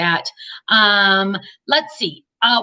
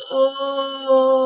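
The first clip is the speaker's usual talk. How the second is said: mock moan; 2 semitones higher than usual. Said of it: "like that".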